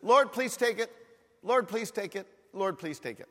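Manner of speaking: quick casual prayer, trailing away; offhand repeated asking; perfunctory plea. Acted. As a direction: toss off a routine request, fading each time. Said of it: "I don't think it was just".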